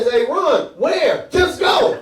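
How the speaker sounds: loud, high panicked yell; panicked shout. Retold or imitated. Panicked yelling during zombie chase.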